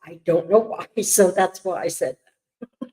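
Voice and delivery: talking around a candy; words slurred by a candy in the mouth; mouth full. Real, not acted. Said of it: "with the candy in your mouth".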